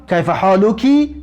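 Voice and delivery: کیف حالکی said slowly with the final کی drawn out; slow down on the feminine کی of حالکی; feminine ending shown. Shown as a demonstration. Teacher to students, slowly showing the feminine کی in حالکی. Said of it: "زیرا که زن هست".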